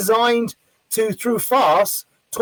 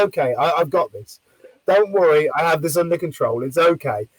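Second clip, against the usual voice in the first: low, calm reassurance; reassuring; 3 semitones lower than usual. Retold or imitated. Calming an angry parent, retold.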